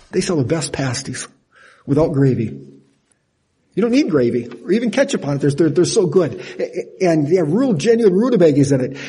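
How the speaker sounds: gushing, eager rave with a laugh; excited. Shown as a demonstration. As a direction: sell it like you love the place.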